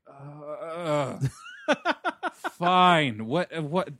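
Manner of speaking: groan, then give in grudgingly; mock-weary reluctant steed; exasperated horse. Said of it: "I imagine the horse is just like".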